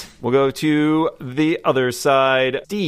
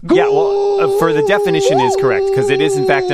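excited high voice; 5 dB louder, faster than usual. Acted.

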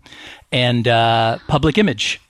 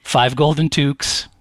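gruff Canadian hockey bro; 3 semitones higher than usual. Retold or imitated. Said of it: "Bob and Doug McKenzie".

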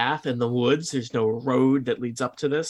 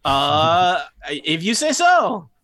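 put-on higher, slow, hesitant goblin accent; Saith, goblin accent; 4 semitones higher, 5 dB louder, much slower than usual. Saith giving in to a traveller, hesitant goblin accent. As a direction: concede slowly in a light goblin accent.

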